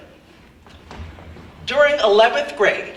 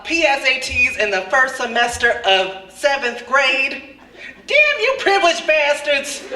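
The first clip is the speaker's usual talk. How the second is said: mock outrage; 3 semitones higher than usual. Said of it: "what I was really thinking".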